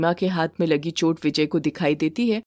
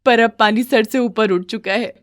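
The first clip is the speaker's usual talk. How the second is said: higher pitched begging voice; pleading young bride; 4 semitones higher, 3 dB louder than usual. Acted. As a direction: beg her to stop hitting. Wife tells.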